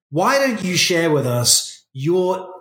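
slow, mock-polite jab at a pupil, pitch lifting at the end; a gruff history teacher mocking a boy, slow and dryly sarcastic; dry teacher sarcasm. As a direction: imitate a gruff teacher's tongue-in-cheek put-down. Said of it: "he did it in a way that's very English humor".

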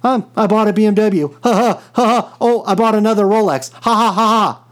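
gloating mock brag with cackles; smug showoff laughing at you; unhinged villain. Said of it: "I can get on here and say".

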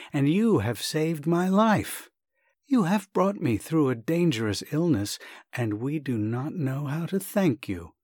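earnest son, a little flustered; agitated young man. Acted. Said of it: "said in an agitated voice".

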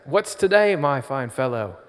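hammed-up British Scrooge; British accent as Scrooge. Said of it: "Oh no, my accent".

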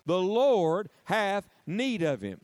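very slow, emphatic, with force on Lord; say it like you mean it. Shown as a demonstration. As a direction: drive it home with conviction. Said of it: "Say it like you mean it now".

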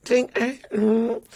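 high awkward squeak trailing into a hum; high-pitched social fluster. Retold or imitated. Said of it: "I'm the most awkward then".

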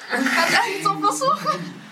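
talking with a head full of water; words bubbling up through water; underwater gurgling voice. Pretend. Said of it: "Du hast ein Blubbern in deinem Kopf".

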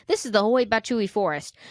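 confident. Shown as a demonstration. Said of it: "let's just say it like we're confident".

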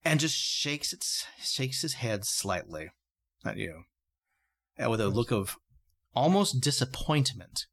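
slow, hushed narration with pauses; game master's scene setting. A narrator's reading. Game master describes creature's reaction.

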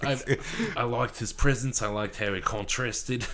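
put-on slipping into an Australian accent. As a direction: talk like an Aussie. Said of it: "This is Australian now".

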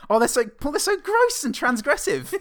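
high, loud laughing delight; words bubbling through laughter. Real, not acted. Laughing at gross scenes.

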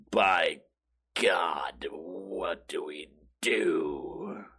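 very low, hushed, slow movie president; stupid dramatic acting. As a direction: ham it up gravely, dragging the last word. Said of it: "everything is just some stupid dramatic thing".

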